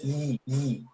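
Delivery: "I" with a buzzing glide; vibrating J sound. Shown as a demonstration. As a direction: make "I" vibrate like a consonant. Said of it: "que además vibra". ("I" vibrada, con sonido de J)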